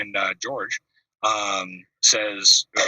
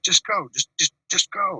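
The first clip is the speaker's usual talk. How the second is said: retold scream; 8 semitones higher than usual. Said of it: "he's, like, screaming at me".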